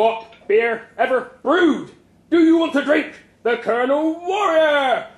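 loud, rising rally cry; top-of-the-voice scream. A narrator's reading. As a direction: whip up the crowd, building to a high scream. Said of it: "My boss screamed at the top of his voice".

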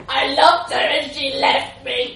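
slow, loud, high self-pitying moan; hammed-up heartbroken wail to the policeman. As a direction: wallow in it theatrically. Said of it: "he moaned".

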